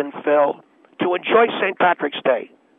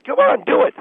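very high, loud urging; yelling come on; 4 dB louder than usual. Acted. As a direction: push him hard, shouting. Boss yelling at host.

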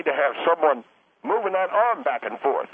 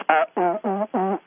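mock ooh sounds; 2 semitones higher, slower than usual. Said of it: "Most of everything else you said was".

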